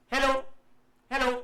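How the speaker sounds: two short, separate hellos with a gap; echo demo. Shown as a demonstration. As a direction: say hello, pause, then echo it back. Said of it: "दूसरा जो हेलो आया वो reflection था". (गूंज जैसे दो अलग हेलो)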